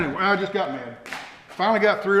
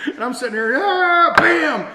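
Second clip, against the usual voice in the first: sudden loud outburst, high and loud; calm turning angry; 10 semitones higher, 6 dB louder, slower than usual. Retold or imitated. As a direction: burst out with a yell and a bam. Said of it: "I was throwing a fit".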